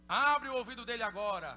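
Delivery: a loud, insistent healing command; commanding prayer. Retold or imitated. Preacher orders the deaf ear to open, loudly.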